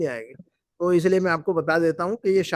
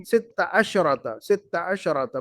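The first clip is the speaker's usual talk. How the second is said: slow model reading; 3 semitones lower, much slower than usual. Shown as a demonstration. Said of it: "اس طرح، ہے نا".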